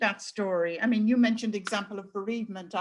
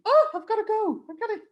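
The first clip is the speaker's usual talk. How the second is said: high-pitched mock outburst, breaking into a laugh; agresiva, imitada; 12 semitones higher, 4 dB louder than usual. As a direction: act out losing patience, much higher pitch. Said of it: "I get aggressive and saying".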